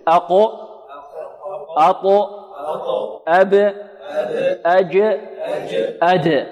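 short bouncing echo on each stopped letter; qalqala letters. Shown as a demonstration. Teacher demonstrating the echo of the qalqala letters. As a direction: tap each letter with a rebound. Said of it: "حروف القلقلة قطب جد".

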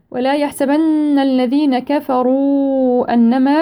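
tajweed recitation; Quran recitation. Shown as a demonstration. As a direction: draw the verse out melodically. Slow recitation of verse.

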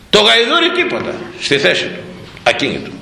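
normal talking voice

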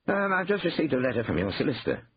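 lightly voiced worried caller; Hugh, dismayed. A narrator's reading. Brother phones about the solicitor's letter, lightly voiced dismay.

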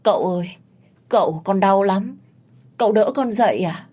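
high, pained moaning to her master; moaning plea. Acted. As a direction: whimper up at him in pain. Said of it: "ả mới rên rỉ".

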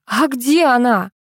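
drawn-out, agitated demand; mild shouted question. A narrator's reading. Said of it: "закричала я".

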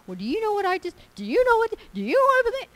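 itching to spill the news; a gossip who cannot hold it in; eager gossip. Acted.

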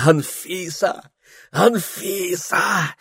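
high, slow, stretched call; drawn-out calling. A narrator's reading. Calling Анфиса through the storm, drawn-out call.

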